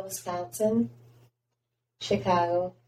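Midwestern place names in a Northern accent. Shown as a demonstration. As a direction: demonstrate a Wisconsin-style Northern accent. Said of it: "I can turn on my, like, Northern accents".

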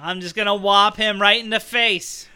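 hammed-up Boston tough talk; Southie Boston accent. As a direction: threaten him in broad Southie. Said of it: "I want the Southie Boston Doctor Strange".

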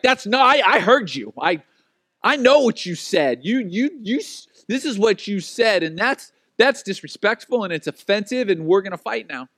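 heated, insistent mock argument; acted indignation. Offended listener can't back off, worked-up insistence. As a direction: dig in with emphatic, stumbling protest. Acted quarrel after misheard word.

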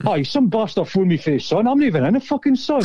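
imitated outrage, pitch climbing sharply; raging. Prank victim on the team bus finding he's not in the paper, raging. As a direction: act out an indignant rant, voice going high. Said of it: "I absolutely raging".

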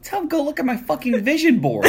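half-shouted joke broken by laughter; laughing mock retort. Real, not acted. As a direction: blurt it out while cracking up. Friend jokes a retort laughing.

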